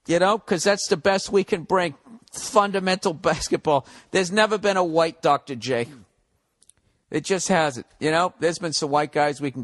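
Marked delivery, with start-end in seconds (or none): 2.3-3.8 "Fundamental" then a laugh before "basketball"; laughing repeat. Real, not acted. Repeating the Spurs praise, laughing through it. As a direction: break into a laugh mid-phrase. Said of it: "repeats with a laugh".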